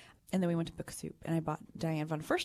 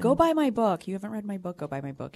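lightly voiced gushing designer; 5 semitones higher than usual. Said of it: "And she said".

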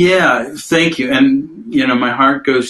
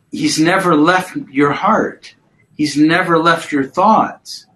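tender reassurance; slower than usual. Real, not acted. Comforting a grieving mother.

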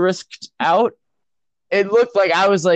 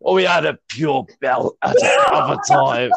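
put-on Glasgow accent. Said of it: "Just just channel Limmy".

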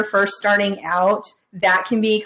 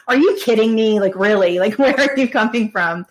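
incredulous, half-laughing reaction; mock disbelief. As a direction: act out lightly exasperated disbelief. Mimics reaction to negative evaluators.

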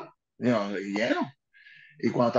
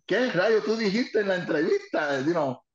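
astonished question; 5 semitones higher, slower than usual. Retold or imitated. Dick Murray quoted, astonished.

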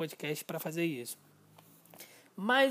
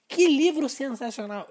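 impressed reader; 6 semitones higher, 7 dB louder than usual. Retold or imitated. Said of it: "com essa mesma entonação de voz".

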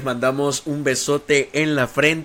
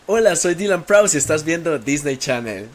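bright TV announcer read, a touch higher; channel announcer voice; 3 semitones higher than usual. Shown as a demonstration. (voz de locutor de Disney Channel)

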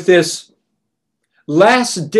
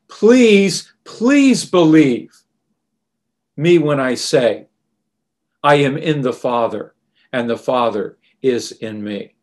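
increased earnestness; 4 semitones lower than usual. Retold or imitated. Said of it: "Jesus speaks it with an increased earnestness".

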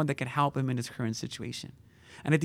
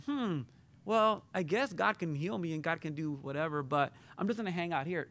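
mock indifference; 3 semitones higher, 6 dB quieter than usual. Imagined beggar just chilling in the back, indifferent. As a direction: play someone idly shrugging it off, quietly.

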